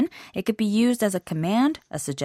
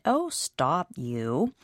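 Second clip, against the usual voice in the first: bashful, softer protest at praise; coy protest; 4 semitones lower, 5 dB quieter, much slower than usual. Shown as a demonstration. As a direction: wave off a compliment shyly. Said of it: "he or she may feel the need to say".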